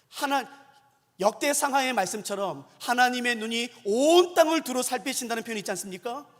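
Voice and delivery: ordinary delivery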